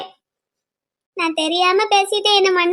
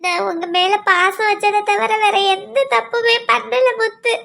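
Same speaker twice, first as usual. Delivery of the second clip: tearful. Acted. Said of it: "baby, அழாத baby".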